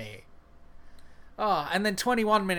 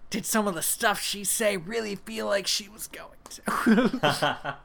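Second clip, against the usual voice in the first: laughing. Real, not acted. Laughing through a comment.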